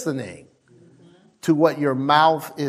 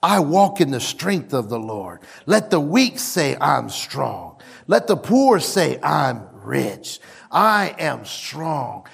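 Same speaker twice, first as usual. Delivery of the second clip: lower, steady faith declaration; calm confession; 5 semitones lower than usual. Shown as a demonstration. Preacher modelling confident confession, low and steady. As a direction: speak it calmly, sure of victory. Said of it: "You begin to say".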